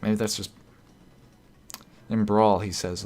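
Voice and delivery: usual speaking voice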